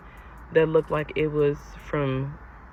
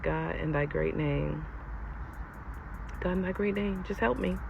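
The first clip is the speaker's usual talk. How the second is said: praying for patience; 10 dB quieter than usual. Retold or imitated. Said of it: "I was just like".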